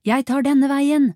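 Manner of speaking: loud, drawn-out high shout; urgent roar to a partner. A narrator's reading. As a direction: bellow it slowly across the street. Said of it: "brølte Arias".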